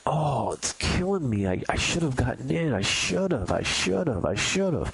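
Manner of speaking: hammed-up torment over a missed trade; mock anguished trader. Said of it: "you're gonna be like".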